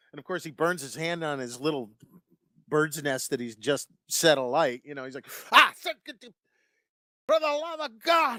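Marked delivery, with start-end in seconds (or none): 5.5-8.4 put-on crotchety old grump voice, cantankerous, very high outburst. Retelling a character burning his hand: cantankerous character voice. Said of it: "Cantankerous as hell".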